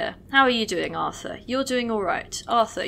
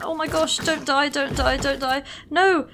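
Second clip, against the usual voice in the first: panicked pleading; 5 semitones higher than usual. Real, not acted. Units dying, pleading with them.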